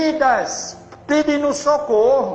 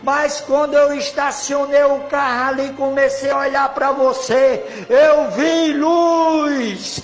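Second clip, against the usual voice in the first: retold shouting; 3 semitones higher than usual. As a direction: shout it like a man overcome. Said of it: "o homem veio gritando, chorando".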